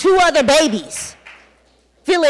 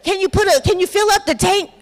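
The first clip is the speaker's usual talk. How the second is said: mild retold begging; 5 semitones higher than usual. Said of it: "I'm begging the people".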